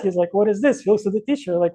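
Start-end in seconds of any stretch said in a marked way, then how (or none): 0.3-0.8 mildly exasperated, a bit louder; mock-upset demand with a little more force; upset inspector. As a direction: act out an inspector's mild outrage. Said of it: "was really upset".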